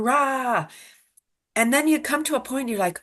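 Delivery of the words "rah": drawn-out mock roar, pitched up; wordless "rah" of an acted argument; mock angry shout. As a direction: imitate someone yelling in a fight. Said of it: "you're shouting at someone".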